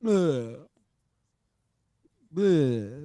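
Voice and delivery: short grunted "ugh", imitated; mock a team's weary grunt; dismissive ugh. Imitating the team's response to criticism, dismissive ugh. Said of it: "they're gonna be like".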